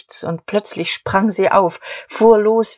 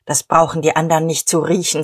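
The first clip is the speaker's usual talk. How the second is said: fast, clipped-off remark; curt; faster than usual. Acted. Diederich to Emmy behind the closed door, fast and curt. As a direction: get it out quickly and briskly. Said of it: "sagte er knapp".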